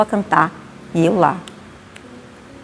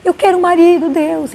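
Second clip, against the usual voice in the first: pleading prayer; 10 semitones higher than usual. Retold or imitated. Childlike prayer pleading for husband.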